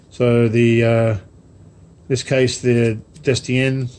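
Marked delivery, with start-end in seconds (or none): 3.2-3.9 Destien said slowly in a self-consciously bad French accent. Shown as a demonstration. Model-ship vlogger tries the ship name Destien in a bad French accent. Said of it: "how's my French accent? Terrible".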